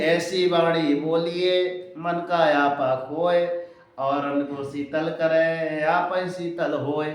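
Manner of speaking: poem recital. Acted. Teacher recites a couplet slowly.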